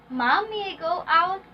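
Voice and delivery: "out" lifted at the end; rising intonation. Shown as a demonstration. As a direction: ask permission with pitch rising on "out". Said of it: "we use rising intonation".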